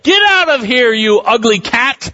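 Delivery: retold yell. Man yelling at a stray cat, mild mock yell. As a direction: shoo the ugly cat off, half-yelled. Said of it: "I would yell at it".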